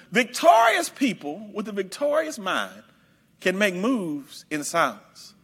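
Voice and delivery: slow, dropping into moves in silence; quiet preached refrain. Shown as a demonstration. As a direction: let the line fall to a hush. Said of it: "sermon refrain".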